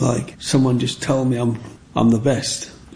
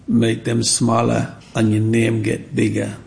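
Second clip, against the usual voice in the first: put-on mum's advice, lightly in a Jamaican accent, slowly. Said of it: "in a Jamaican accent".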